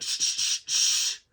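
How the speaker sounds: whispered shushing; frantic whispered shh; hushing. Retold or imitated. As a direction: hush her urgently under your breath. Grandfather hushing wife.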